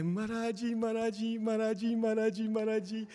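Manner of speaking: very high, eager rabbit voice; high-pitched, breathlessly keen welcome; excited greeting. Acted. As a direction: chant it over and over, thrilled.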